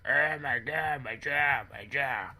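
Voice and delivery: high-pitched pained wail, easing off; mock freak-out. Son panics over his popped jaw, mock freak-out. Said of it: "he just started freaking out".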